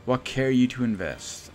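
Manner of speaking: theatrical joy easing into a confidential pitch; elated inventor. Acted. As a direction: exclaim grandly, then coax the investor. Inventor delighted, then pitches.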